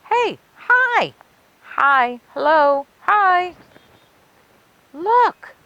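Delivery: very high, bright greetings; squeaky greetings. Acted. Friendly monsters greeting Frankenstein, very high squeaky calls. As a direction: chirp hellos like tiny ghosts.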